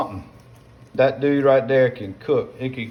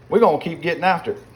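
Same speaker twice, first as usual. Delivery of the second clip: "we're gonna keep getting after it" called out louder and higher, a bit fast; pumped-up call; 5 semitones higher, 4 dB louder, faster than usual. Real, not acted. A cook hyping himself over the pot, loud and eager. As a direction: fire it up to the camera with a rising call of "getting after it". Cheering himself on while cooking.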